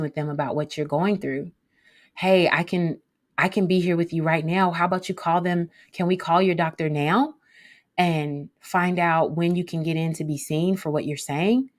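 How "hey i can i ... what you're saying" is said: encouraging. Shown as a demonstration. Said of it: "You hear how you're encouraging".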